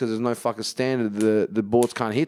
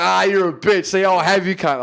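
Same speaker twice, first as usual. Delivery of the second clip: mock tough guy; 7 semitones higher, 5 dB louder than usual. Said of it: "And not like".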